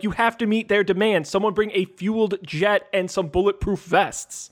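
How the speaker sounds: slightly hammed-up hostage drama; over the top. Co-host extending the sandwich hostage bit, over the top. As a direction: push the mock urgency a little. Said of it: "you gotta push it to the edge".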